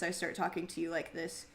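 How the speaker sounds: dropped, mumbly natural voice; low-key mumbled talk. Shown as a demonstration. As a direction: let the service voice fall into a mumble. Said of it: "which is very mumbly".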